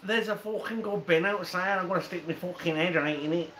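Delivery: quick-running mock Scouse; Liverpool accent. Shown as a demonstration. Mate showing off on request, mock Scouse accent. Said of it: "Go on, do a Liverpool accent".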